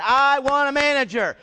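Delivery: fed-up customer demanding a manager, loud. Retold or imitated.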